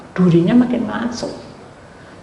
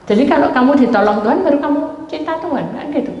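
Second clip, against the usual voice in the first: quick challenge; 7 semitones higher, faster than usual. Retold or imitated. Challenging the man in retold argument.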